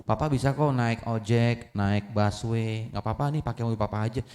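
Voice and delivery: gently insist, no pressure; soft-spoken father. Acted. Father quietly telling his son he can take the bus.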